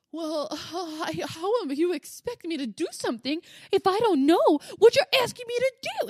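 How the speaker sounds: high, loud imitation of a whining kid; mocking whine. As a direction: whine in protest like an exasperated child. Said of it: "he's, like, whining".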